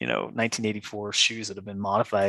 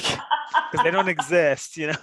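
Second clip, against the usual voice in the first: slow, higher, laughing through the words; 5 semitones higher, 4 dB louder, slower than usual. Real, not acted. Telling the host about the secret shoes, laughing. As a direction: let the laugh spill over the line.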